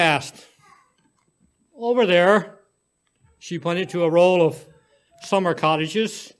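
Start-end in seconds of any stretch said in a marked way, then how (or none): 1.7-2.6 put-on high, louder child voice; little girl. A narrator's reading. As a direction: answer simply like a child. Child points.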